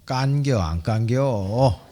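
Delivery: lightly imitated, drawn-out Chungcheong accent; terse Chungcheong dialect punchline with a slow ending. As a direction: let the last word drag, Chungcheong style. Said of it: "충청도 사람들은 이렇게 얘기한다는 거죠".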